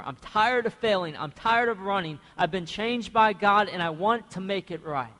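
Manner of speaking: acted confession, building to a near shout at failure; Judah pleading. Judah begging Joseph for his brother, pleading hard. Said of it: "And he says".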